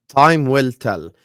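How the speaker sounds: slowed right down, each word weighed; slow emphatic repeat. Real, not acted. Pundit to co-hosts on Trent's move, slow and weighty. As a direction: let it land slowly, like a verdict. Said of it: "repeats phrase slower, weightier".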